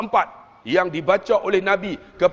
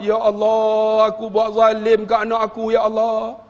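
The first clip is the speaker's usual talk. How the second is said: imitated tearful prayer. Preacher as remorseful father begging God's forgiveness, tearful pleading. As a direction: plead to God, building toward a wail. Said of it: "Menangis ayah saya".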